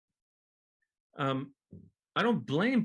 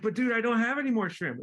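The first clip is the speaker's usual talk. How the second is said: exasperated staff; 9 semitones higher, 3 dB louder than usual. Retold or imitated. Restaurant staff replies to yelling diner.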